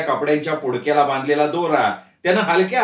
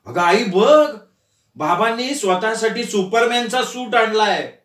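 higher, eager voice calling to mother; excited call; 4 semitones higher than usual. Acted. Son calls his mother to see, excited. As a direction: announce the news with excitement.

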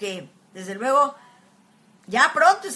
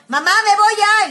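son's quick goodbye; 9 semitones higher, 11 dB louder than usual. Retold or imitated. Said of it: "hoy de repente".

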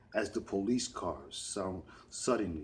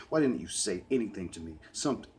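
angry; 4 dB louder, faster than usual. Acted. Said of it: "'cause I was so angry".

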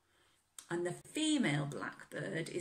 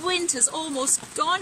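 a touch of cheer, higher; happily; 12 semitones higher, 12 dB louder than usual. A narrator's reading. Bear waking up, telling Robin happily. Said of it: "he said happily".

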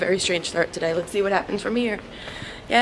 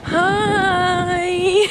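high chirpy hi; 10 semitones higher, 3 dB louder than usual. Retold or imitated. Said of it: "she was like".

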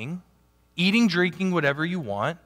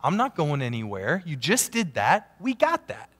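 encouraging; 3 semitones higher than usual. Retold or imitated. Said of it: "I said".

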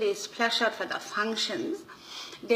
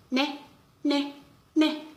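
mock rooster; 5 semitones higher, slower than usual. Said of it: "one rooster is crowing".

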